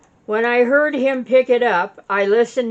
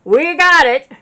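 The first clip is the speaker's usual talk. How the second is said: louder, higher triumphant yell; retold yell; 7 semitones higher, 7 dB louder than usual. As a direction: shout it like a win on the phone. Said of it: "I could hear Mark Hollison yell".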